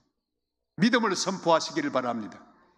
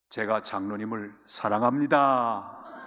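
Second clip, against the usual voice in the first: disarm the angry elder tenderly; gentle declaration; 3 semitones lower, slower than usual. Retold or imitated. Pastor answering an angry elder, slow tender confession. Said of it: "제 입에 나온 말이 뭘까요?".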